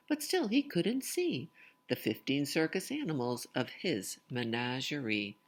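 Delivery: lively, sing-song storytelling voice; picture book read-aloud. Acted. Reading a rhyming picture book aloud to children, lively sing-song. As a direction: bounce the rhymes for young listeners.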